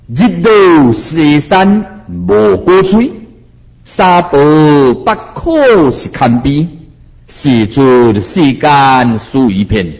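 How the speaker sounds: slow, measured chanting of a Buddhist verse; slow verse recitation. Shown as a demonstration. Master recites the verse to his listeners, slow and solemn. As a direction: recite each line slowly like scripture. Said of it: "你听看卖咧啊！".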